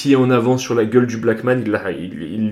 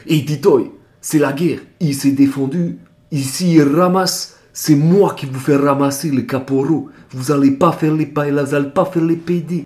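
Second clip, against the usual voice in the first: big corporal chief; 3 semitones higher than usual. Retold or imitated. The Tahitian corporal chief defending the recruit to the corporals, a hint of gruff authority. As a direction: stand up for the kid, laying down the law. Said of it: "il arrivait, il a fait".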